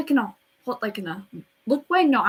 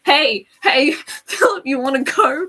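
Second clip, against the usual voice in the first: louder mock call-out picking a fight; mock challenge; 2 semitones higher, 6 dB louder than usual. Teen imagines confronting taller Philip, mock challenge. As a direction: call him out, playfully spoiling for a fight.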